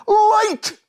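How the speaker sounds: high, loud commanding shout. A narrator's reading. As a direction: call the light into being. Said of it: "Then he shouted".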